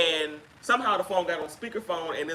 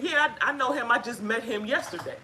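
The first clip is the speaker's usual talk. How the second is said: higher, airy mock caller voice; imitating the caller; 5 semitones higher than usual. Retelling what the unsuspecting caller said, higher voice. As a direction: play her light and unaware, pitched up. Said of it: "she said".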